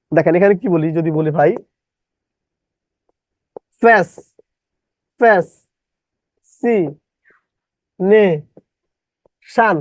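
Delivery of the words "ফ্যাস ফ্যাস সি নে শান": ফ্যাস, সি, নে, শান as isolated chunks; distorted spelling pronunciation. Shown as a demonstration. Teacher breaking a word for spelling, syllable by syllable. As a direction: dictate ফ্যাস... সি... নে... শান with long gaps. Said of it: "বিকৃত ভাবে উচ্চারণ করবেন".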